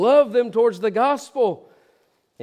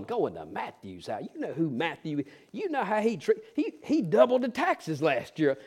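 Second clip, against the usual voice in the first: mumbling disciples; 7 dB quieter than usual. Retold or imitated. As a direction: grumble quietly like a sulking disciple. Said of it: "they're mumbling on the road".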